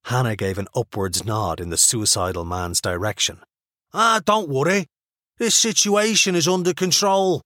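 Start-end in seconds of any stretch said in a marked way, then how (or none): 3.9-7.4 higher, offhand reassurance. A narrator's reading. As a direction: brush it off casually. Ox reassures Hannah.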